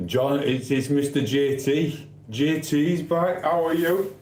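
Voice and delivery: high, slow greeting voice; J T impression. Greeting a viewer as a put-on character, high and slow. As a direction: stretch out a high, showy hello. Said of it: "Not the real J T".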